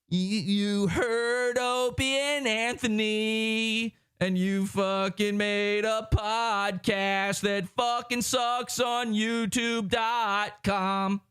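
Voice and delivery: slow, dopey put-on voice mocking a copycat; mock dumb podcaster. Mocking Opie and Anthony copycat podcasters, slow dopey voice. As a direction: drag it out like a clueless wannabe.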